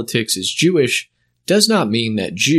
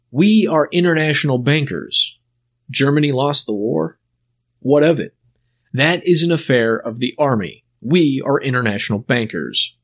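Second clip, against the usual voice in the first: a hint of a slow, oily financier. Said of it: "Imagine the slow, oily voice in which he said this".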